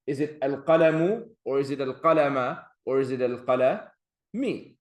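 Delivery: al-qalamu, al-qalama, al-qalami, final vowel stressed; case endings. Shown as a demonstration. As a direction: ask with each ending clearly marked. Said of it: "depend on where it falls".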